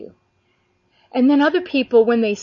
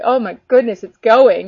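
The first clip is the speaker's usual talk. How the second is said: mildly excited exclamation, louder; a touch of thrilled amazement, voiced louder; 7 dB louder than usual. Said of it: "you're getting all excited".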